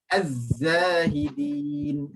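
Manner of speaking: Az-Zahidin slow with pressed buzzing zai. Shown as a demonstration. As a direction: lean on the zai slowly. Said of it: "tekan, zai". (tekan bunyi zai dalam Az-Zahidin)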